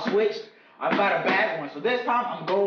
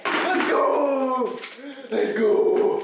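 excited cheer; 5 semitones higher, much slower than usual. Real, not acted. Celebrating win.

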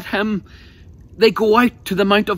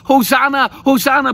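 raised, ringing call of praise; crowd's hosanna cry; 3 semitones higher, 3 dB louder than usual. Retold or imitated. Crowd welcoming Jesus into the city, raised joyful call. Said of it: "crying at the top of their voices".

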